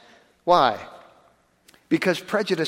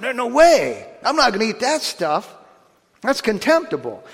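sneering refusal; 5 semitones higher than usual. Retold or imitated. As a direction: spit out the refusal like Peter in contempt. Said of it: "sneering and jeering and, and spitting and scowling and going".

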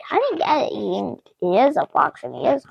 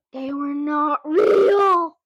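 astonished; slower than usual. Real, not acted. Surprised reveal.

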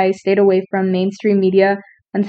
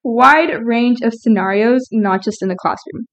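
slurred by a retainer; talking with retainer. Real, not acted. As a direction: speak around a dental retainer. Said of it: "I'm wearing my retainer".

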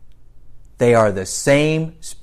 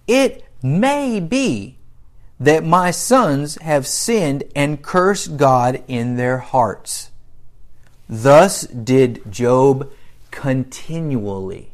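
very slow, drawn-out Bible reading; scripture reading; slower than usual. Acted. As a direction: stretch each weighty word of the verse. Reads scripture aloud to congregation.

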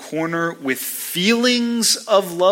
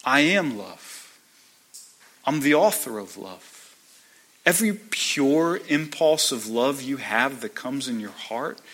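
gently. Acted. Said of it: "God says ever so gently".

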